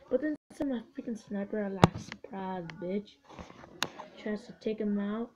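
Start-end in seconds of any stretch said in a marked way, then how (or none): 2.0-3.1 soft, slightly lowered ambush taunt; understated little taunt; sly voiced quote. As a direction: say it quietly, as the lurking unit. Voicing snipers that ambush.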